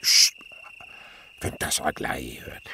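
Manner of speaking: sharp psst, then a low whisper; hushed whisper. Acted. Uncle hushing the boy about Aglaé, whispering. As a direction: hush him so Aglaé can't hear.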